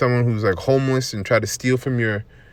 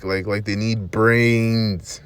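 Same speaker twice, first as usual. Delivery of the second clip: slow, lightly voiced zombie moan; mock zombie; 2 semitones lower, much slower than usual. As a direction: drag it out like a brainless zombie. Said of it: "like zombies".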